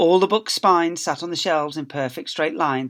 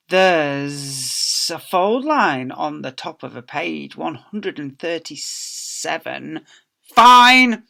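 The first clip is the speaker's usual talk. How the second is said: put-on a nasty old librarian; stern librarian; 6 dB louder, slower than usual. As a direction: drag out the faults, then bark the fine. Librarian inspecting returned books.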